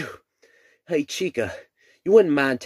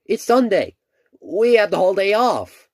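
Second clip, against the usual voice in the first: excited; 4 semitones higher than usual. Acted. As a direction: announce it with glee. Excited announcement.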